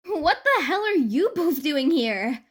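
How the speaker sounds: high, slow, incredulous; jaw-dropped disbelief at friends; shocked outburst. A narrator's reading. An to friends at her door, shocked and high.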